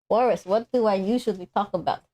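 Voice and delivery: altered voice changer voice; filtered through a voice changer. Real, not acted. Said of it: "sounds different".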